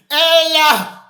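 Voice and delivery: "Ella" said EL-lah, ringing out; Hebrew pronunciation. Shown as a demonstration. Preacher teaching the Father's Hebrew name, "Ella" pronounced EL-lah. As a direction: pronounce "Ella" as EL-lah, two firm syllables. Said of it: "that's what the word is".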